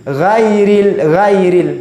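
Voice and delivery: Ghairil said with a thin, light gha; wrong thin ghairil. Shown as a demonstration. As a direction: read ghairil thin, as a mistake. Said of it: "tidak boleh kita baca seperti ini".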